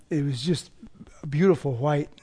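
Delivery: breathless whisper of awe; awed whisper. Real, not acted. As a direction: whisper it in wonder at the snow. Awe at snowy mountains.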